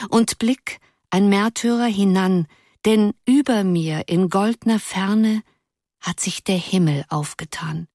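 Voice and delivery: gentle poem recital; soft declamation. A narrator's reading. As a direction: recite Uhland softly, like a devotion. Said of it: "mit einer weichen Stimme zu deklamieren".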